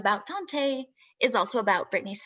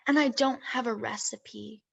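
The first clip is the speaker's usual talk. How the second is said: deliberate verse recital, pausing at line breaks; spoken-word reading with drawn-out line endings; poetry reading. Acted. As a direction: recite your own poem, phrase by measured phrase. Reads second poem aloud.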